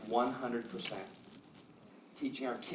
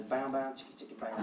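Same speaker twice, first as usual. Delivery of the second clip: hushed mouth-made guitar riff; beatbox a cheesy seduction riff under your breath; playful, softly percussive vocal riff; mock funk riff; 5 dB quieter than usual. Jokingly voices cheesy romance music.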